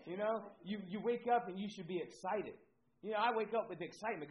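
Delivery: excited. Real, not acted. Preacher builds to excited pitch.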